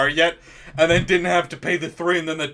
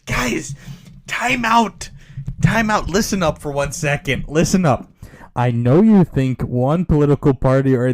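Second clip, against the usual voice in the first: calling out; 6 dB louder than usual. Real, not acted. Calling to the cartoon Sneetches.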